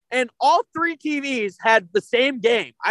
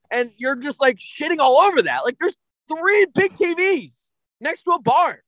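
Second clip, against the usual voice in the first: angry rant; 2 semitones higher than usual. Real, not acted. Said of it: "Alex's angry moment".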